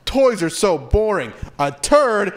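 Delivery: put-on high, bored then greedy child; mock kid. Imagined child wanting the turd, high squeal. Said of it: "Kids aren't like".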